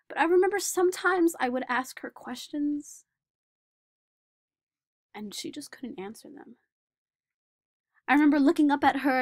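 put-on earnest young man recalling school, wistful; Daniel remembering childhood. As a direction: tell the memory as the lonely boy grown up. Performer plays Daniel Tammet.

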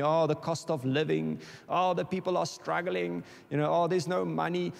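lightly voiced gloomy complaining; mock worried grumbling. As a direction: sigh out the worries half-mockingly. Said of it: "I was talking about the economy".

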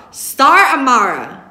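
loud, slow, high warning; angry mother's drawn-out name call; through gritted teeth. A narrator's reading. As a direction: draw out the full name through your teeth. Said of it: "she says through her teeth".

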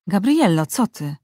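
a mild call to get her attention. Acted. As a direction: call her name across the room. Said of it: "zawołał Matias". (lekkie zawołanie po imieniu)

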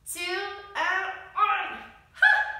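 relieved cheer at the end of a set; triumphant finish. Real, not acted. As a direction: sing the count out, then a loud burst.

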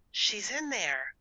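high, slow, hushed whisper. A narrator's reading. Gertrude tells Harriet the cat is inside, whispering. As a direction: whisper a discovery to your sister. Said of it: "she whispered".

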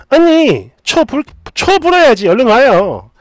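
lightly voiced sister-in-law calling out; 시누이. Sister-in-law calls narrator to blow candles, lightly acted calling voice. 시누이가 케이크 먹자고 부름.

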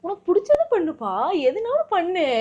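sweetly acting agreeable. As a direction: play the overly nice wife. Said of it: "ஏன் அழகா நடிக்கிறீ இந்த மாதிரி".

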